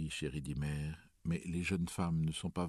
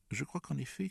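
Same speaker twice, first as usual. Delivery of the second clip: judicious Toby; 10 semitones higher than usual. A narrator's reading. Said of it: "commença Toby judicieusement".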